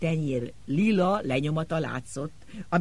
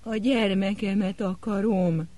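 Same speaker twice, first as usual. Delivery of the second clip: put-on slow, high whimpering cry for her child; slow, pitiful whimper; whimpering plea; 5 semitones higher, 3 dB louder, slower than usual. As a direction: whimper it, begging. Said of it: "nyöszörögte".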